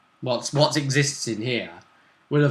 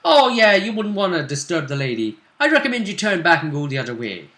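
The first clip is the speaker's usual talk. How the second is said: lilting elf, opening high and loud; Dalish elf; 3 semitones higher, 4 dB louder than usual. Acted. Elf warning travellers off the lady, in character. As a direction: warn them off in character as the elf. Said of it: "And he speaks".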